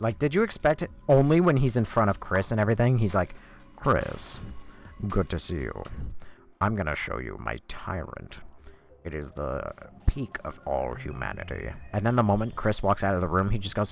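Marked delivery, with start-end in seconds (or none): 3.8-11.7 very deep, slow, deliberate drawn-out delivery. Acting out how the character talks when in front of Chris: Wesker voice. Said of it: "what else did you expect Wesker to sound like?".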